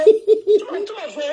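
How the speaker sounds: loud, sharp start cut short; angry outburst. Real, not acted. To a rival on her live stream, a loud outburst. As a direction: blurt it out hard.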